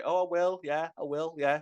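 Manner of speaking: lightly imitated Sheffield accent, teasing; mock cohost in a mild Sheffield accent. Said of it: "That's a really good impression of me there".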